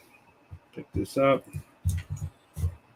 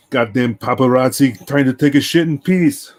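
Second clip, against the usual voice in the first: loud, higher mock outrage from the stall; mock yelling; 4 semitones higher, 9 dB louder than usual. Yelling at a coworker from the bathroom stall, mock outrage. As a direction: bellow it like a fed-up celebrity. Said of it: "I started yelling at him".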